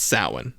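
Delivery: Samhain said as SOW-in; correct Samhain pronunciation. Shown as a demonstration. Host insisting on the right name, Samhain as SOW-in. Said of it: "It's pronounced Samhain".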